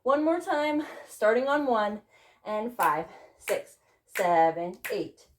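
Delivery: breathless counting; counting while still panting; out of breath. Real, not acted. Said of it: "I'm really out of breath".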